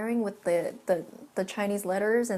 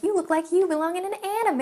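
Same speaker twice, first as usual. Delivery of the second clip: mocking white dude; 9 semitones higher, 6 dB louder than usual. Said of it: "he was like".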